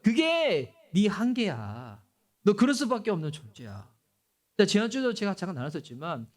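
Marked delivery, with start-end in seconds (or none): 0.0-3.9 devil's taunt. Retold or imitated. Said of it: "마귀는 그러죠".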